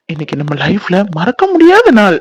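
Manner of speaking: a hint of a husky romantic voice; lightly husky, trying to set the mood; put-on husky voice. Husband wooing his bride, mildly husky. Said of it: "அஸ்கி வாய்ஸ்ல பேசினா".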